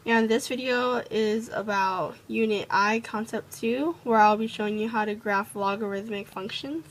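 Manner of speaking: talking around freshly tightened braces; braces-sore mouth, careful speech; sore jaw from braces. Real, not acted. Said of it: "sorry if I'm talking weird".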